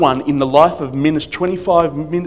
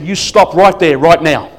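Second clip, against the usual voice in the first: louder, firm order to halt; forceful command; 5 dB louder than usual. Retold or imitated. Pastor running down the auditorium after her, forceful order. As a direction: order them to stay put, punching each phrase. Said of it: "all of a sudden so forceful".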